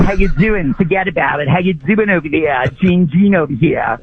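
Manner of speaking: lightly voiced "Gene" character; hint of a hammed-up radio character; comic character. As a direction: toss it out like a goofy catchphrase bit. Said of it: "That was a character".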